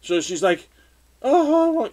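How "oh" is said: high, loud mock squeal; put-on excited girl's exclamation; excited, imitated. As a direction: imitate her getting excited, pitched way up. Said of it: "gets a little excited".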